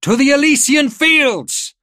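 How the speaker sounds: very high, drawn-out yell; war cry. A narrator's reading. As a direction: bellow it to launch a charge. General swept up, war cry.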